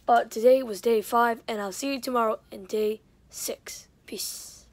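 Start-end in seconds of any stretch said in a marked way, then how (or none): 1.5-4.7 whispering. Real, not acted. Signing off at bedtime.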